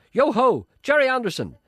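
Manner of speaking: high, loud street hail; loud mock shout of a name; retold shout. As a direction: hail him across the square. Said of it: "I shouted at him".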